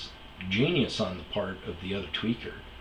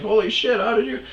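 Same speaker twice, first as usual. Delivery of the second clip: much higher, louder mock surprise; imitated amazement; 13 semitones higher, 7 dB louder than usual. Bouncer amazed he guessed, imitated high and loud. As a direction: gasp it out like the bouncer. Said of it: "He's like".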